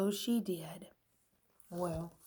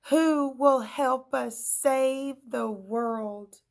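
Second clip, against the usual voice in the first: high, loud melodramatic despair; despairing wail; 6 semitones higher, 7 dB louder, slower than usual. A narrator's reading. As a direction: ham up the doom. Characters despair.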